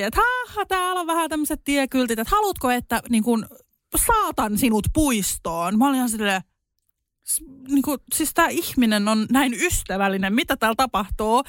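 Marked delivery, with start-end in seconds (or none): 0.2-5.8 higher, laughing offer; chuckling local. Retold or imitated. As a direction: chuckle as you offer to walk her there. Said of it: "se naureskeli". (naureskeleva, ystävällinen tarjous)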